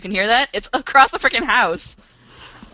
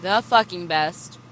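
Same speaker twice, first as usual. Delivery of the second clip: unenthusiastic; 5 semitones lower, 3 dB quieter than usual. Real, not acted. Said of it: "Can you say that with, like, a little enthusiasm?".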